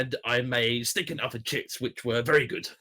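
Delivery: lightly voiced Boris Johnson; a hint of Boris's stop-start pacing; Boris impression. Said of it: "sorry, he goes".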